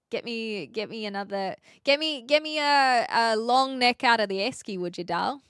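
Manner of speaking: lightly put-on Aussie accent, restarting phrases; Aussie accent attempt. Shown as a demonstration. Streamer asking for a long neck, attempted Aussie accent. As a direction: have a go at casual Aussie. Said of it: "doing an Aussie accent turns me Kiwi".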